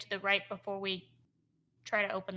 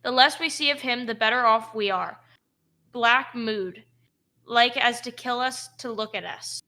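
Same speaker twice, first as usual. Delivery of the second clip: louder second orc guard; 7 dB louder than usual. Acted. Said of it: "another responds".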